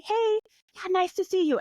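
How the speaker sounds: high, breezy hello, lightly acted; mock polite greeting. Showing listeners how to greet an ex, mock polite. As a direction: toss off a high-pitched friendly greeting.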